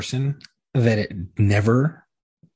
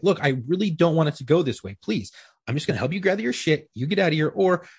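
higher-pitched, reasoning plea; mildly exasperated imitation of pleading; retold appeal; 5 semitones higher than usual. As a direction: reenact trying to talk someone down. Retold appeal to a belligerent suspect.

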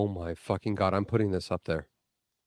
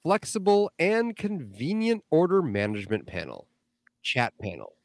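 mock sales pitch; 3 semitones higher than usual. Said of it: "reading that in an accent".

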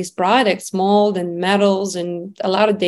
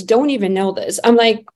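ordinary talk

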